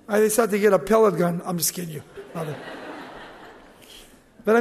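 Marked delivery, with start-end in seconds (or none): 1.4-2.0 soft, laughing admission of the joke; real laugh while taking back the joke; laughing aside. Real, not acted. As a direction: chuckle it out quietly. Joke about pellet gun.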